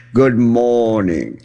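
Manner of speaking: slow, drawn-out put-on Irish lilt; slow mock Irish greeting. Telling a story, imitating the Irish barkeep Connor's slow greeting. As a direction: stretch it like a stage Irish barkeep. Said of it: "Irish barkeep named Connor".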